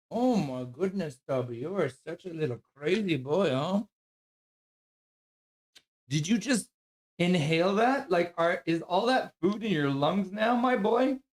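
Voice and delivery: high doting voice for the dog. Real, not acted. Baby talk to his dog.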